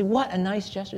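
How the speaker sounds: WHAT stressed above the rest; admiring emphasis on WHAT; emphatic WHAT. Shown as a demonstration. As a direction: lean on WHAT, then let the rest fall. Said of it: "We don't just say "nice." We say".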